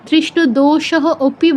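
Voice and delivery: "দোষহ অপি" as two separate words; wrong split reading. Shown as a demonstration. Teacher showing students the forbidden reading, দোষহ অপি split apart. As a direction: sound the h of "দোষহ" and the first vowel of "অপি". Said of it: "বলা যাবে না".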